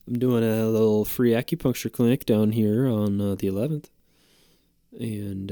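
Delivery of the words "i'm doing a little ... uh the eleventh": lightly voiced clinic promoter; put-on flyer man. Flyer man pitching his free clinic to the host, lightly put-on voice. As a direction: play the acupuncture guy with a light put-on voice. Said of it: "it's just fun to do that voice".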